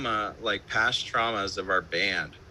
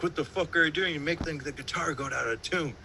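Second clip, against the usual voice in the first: David Bennett; 5 semitones higher than usual. Retold or imitated. Producer scolding guitarist over the tuning, high mock-indignant voice. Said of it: "And then David Bennett's like".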